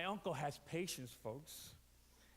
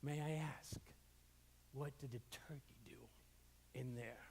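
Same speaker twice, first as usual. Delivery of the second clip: timid parrot; 6 semitones lower, 8 dB quieter than usual. Retold or imitated. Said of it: "the bird says".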